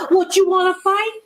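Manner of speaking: high, mock-challenging taunt to the dog; playful high dare; teasing taunt. Real, not acted. Owner taunting dog Duke.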